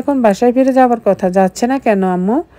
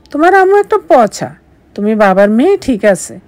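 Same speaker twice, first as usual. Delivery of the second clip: put-on teasing baby talk; 2 semitones higher than usual. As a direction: tease mom to the baby. Husband talking to unborn baby. (উঁচু গলায় আদুরে খুনসুটি)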